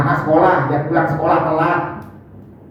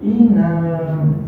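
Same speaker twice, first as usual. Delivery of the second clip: curt name call; 3 semitones lower than usual. Retold or imitated. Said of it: "Seneng kau dipanggil gitu kan?".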